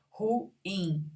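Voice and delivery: "Ruim" in two beats, ru-im; separated vowels. Shown as a demonstration. Teacher showing a hiatus, vowels separated. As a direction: split "Ruim" between u and i. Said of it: "Se separam".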